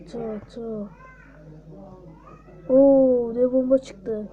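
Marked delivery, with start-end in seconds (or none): 2.7-4.3 excited oo. Real, not acted. Big bomb explodes in battle.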